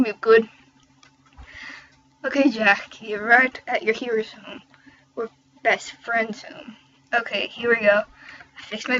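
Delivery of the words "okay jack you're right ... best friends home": attempted Irish accent; light, put-on Irish lilt. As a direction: try your best amateur Irish accent. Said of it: "do my best Ireland accent now".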